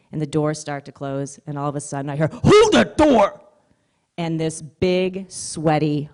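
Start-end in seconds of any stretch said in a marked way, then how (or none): 2.3-3.4 a long high yell of Hold that door; distant shout. Retold or imitated. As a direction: call out from across the lobby for the door to be held. Stranger yelling from lobby.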